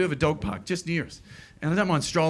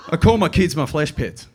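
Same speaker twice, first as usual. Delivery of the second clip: normal talking voice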